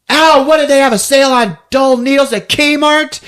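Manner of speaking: high, hammed-up indignant yelp; mock pained complaint. Patient getting a shot from candy striper, mock outrage. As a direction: complain loudly as if jabbed, played for laughs.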